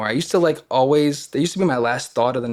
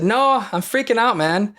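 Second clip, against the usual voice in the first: retold panic; 9 semitones higher than usual. Answering the old man.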